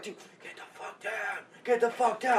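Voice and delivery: hushed urgent whisper. Retold or imitated. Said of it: "they're all whispering".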